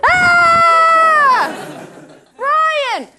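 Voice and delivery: high, loud hammed-up scream; horrified scream. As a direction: scream the name in mock horror. Acting horrified ticket finding brother.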